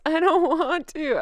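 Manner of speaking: slow whiny protest, laughing through; sulky whine breaking into a laugh. Pretend. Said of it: "Sorry about the whiny voice".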